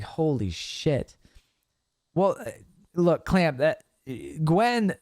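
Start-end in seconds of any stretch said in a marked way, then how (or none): 0.0-1.1 slow, soft, drawn-out dismay; stunned holy shit. Retold or imitated. Mocking his own dismay at the keyboard, slow and soft. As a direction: let it sink in, slow and quiet. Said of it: "And it was like".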